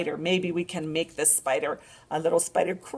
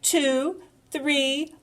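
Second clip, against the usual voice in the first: rising, louder count; excited counting; 8 semitones higher, 7 dB louder, much slower than usual. Shown as a demonstration. Librarian counting a duckling's feet excitedly. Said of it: "Are you ready?".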